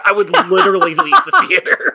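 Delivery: high, squeaky through laughter; giggling while repeating it; laughing. Real, not acted.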